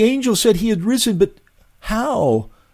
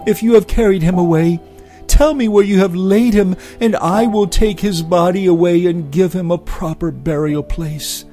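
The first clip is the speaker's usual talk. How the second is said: high and loud, growing urgent; desperate plea; 7 semitones higher, 6 dB louder than usual. A narrator's reading. Mary pleading with the gardener, high and desperate. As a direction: plead harder and louder as you go.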